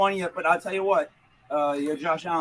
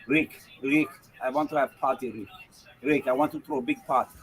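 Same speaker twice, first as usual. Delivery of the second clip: lightly put-on Lithuanian woman's accent; imitated Lithuanian accent. Host mimicking a young bar worker, Lithuanian accent. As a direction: imitate a Lithuanian party girl's English. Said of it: "That woman's voice".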